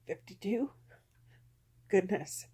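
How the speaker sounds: barely voiced, near whisper; very soft, pained confession; hushed, hurt admission. Real, not acted. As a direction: let the words drop almost to nothing. Admits old hurt still hurts.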